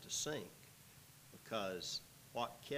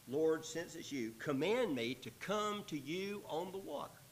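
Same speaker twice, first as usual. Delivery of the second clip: higher, projected reading of a plea; raised-pitch pulpit reading; scripture reading; 6 semitones higher than usual. Acted. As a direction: read the quoted request out to the room. Reads Peter's words aloud.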